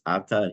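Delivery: "ata" accented on the opening syllable, A-ta; stress on first syllable. Shown as a demonstration. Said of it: "It's a different reason that's".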